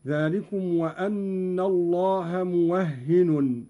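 موهن with open waw, doubled ha and sounded final n; Qalun's reading. Shown as a demonstration. Teacher demonstrates Qalun's reading of the verse, موهن as muwahhinun. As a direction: recite slowly, saying موهن as "muwahhinun". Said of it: "بفتح الواو وتشديد الهاء وتنوين النون، هكذا".

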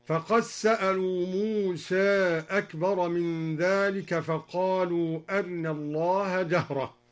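"فقد سألوا" as faqas-sa'alu, "موسى" toward Muse; merging, half-tilt, clipped vowel. Shown as a demonstration. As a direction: merge d into s in "فقد سألوا", hurry the i of "أرنا". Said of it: "وأدغم الدال في السين".

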